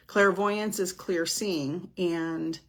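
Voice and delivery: slowed down by a heat headache; talking slow. Real, not acted. Medium explaining clairvoyance on a hot day, talking slow. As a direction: take it slowly, a little drained by the heat. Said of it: "if I'm talking slow, that's why".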